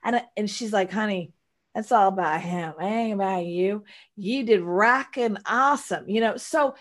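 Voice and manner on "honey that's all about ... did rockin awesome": a hint of Southern twang, imitating a friend; mock Texas accent. Girlfriend reassuring her about the hater, mock Texas accent. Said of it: "if I gave her that, like, accent".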